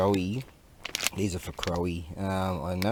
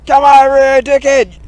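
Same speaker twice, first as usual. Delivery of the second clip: much higher, much louder barking shout; drill sergeant yell; 19 dB louder than usual. Pretend. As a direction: bellow it like an angry drill sergeant. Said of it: "It's fucking Drill Sergeant".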